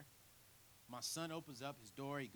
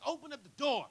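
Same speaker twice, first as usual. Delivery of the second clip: higher, louder stern order; dad's command; 12 semitones higher, 13 dB louder than usual. Retold or imitated. Father at the car window, stern command. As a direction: order him to open up. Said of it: "he's like".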